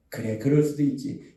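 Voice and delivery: low, understanding voice; gentle acceptance. Acted. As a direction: say it low and forgiving. Voices accepting catchphrase, lower. (낮고 너그러운 말투)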